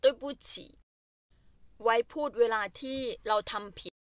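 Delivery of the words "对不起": whispered, very slow, one syllable at a time. Shown as a demonstration. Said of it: "teacher slowly drilling phrase". (กระซิบช้าๆ ทีละพยางค์)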